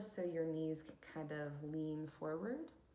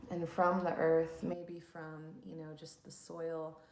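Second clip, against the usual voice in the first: unhurried instructions for settling into stillness; guided meditation; 4 dB louder than usual. Acted. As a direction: lead listeners into calm, leaving long pauses.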